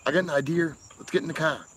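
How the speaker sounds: Boston accent, R added to "idea", dropped from "car". Shown as a demonstration. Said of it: "add R's and take 'em away".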